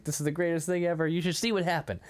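mock-excited, pitched a little high; lightly acted giddy enthusiasm. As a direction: imitate an eager follower bubbling over. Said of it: "bouncing up and down".

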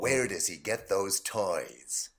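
slow, low movie-villain line; a hint of Joker menace; film quote voice. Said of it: "here's one for you".

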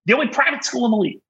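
high exasperated shriek, near tears; screaming crying fan. Real, not acted. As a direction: wail in disbelief at the plan. Fan melting down over league plan.

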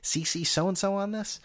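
whispered listener musing. Pretend. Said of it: "You're saying".

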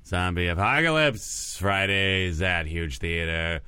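drawn-out announcer delivery; mock promo announcer; show promo read. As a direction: sell it slowly like a local ad.

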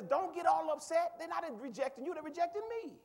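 Jesus reassuring. Retold or imitated. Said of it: "Jesus says".

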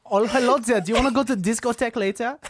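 quick, mock foreign-student German English; lightly hammed German accent. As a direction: imitate a chirpy German visitor. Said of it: "his broken English was, like, my favorite accent".

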